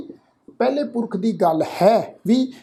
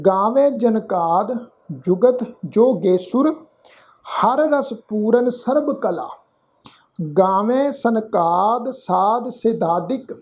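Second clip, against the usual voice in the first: slow, measured verse reading; scripture recitation; slower than usual. Shown as a demonstration. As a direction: recite each word slowly and distinctly. (ਹੌਲੀ, ਠਹਿਰ ਕੇ ਗੁਰਬਾਣੀ ਪਾਠ)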